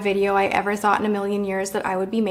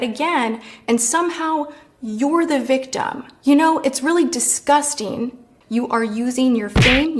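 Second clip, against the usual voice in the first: real, mildly heated indignation; pissed off. Real, not acted. Calling out James over his behavior, pissed off. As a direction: confront them, punching the accusations. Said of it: "All right, I'm pissed".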